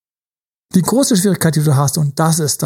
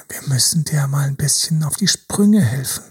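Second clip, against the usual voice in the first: conspiratorial whisper. Acted. Coach drops to whisper.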